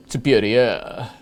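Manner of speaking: slow, drawn-out mock French accent; badly faked French on the wine term; silly French accent. Host apologising to French people, silly French accent. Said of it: "doing that stupid accent".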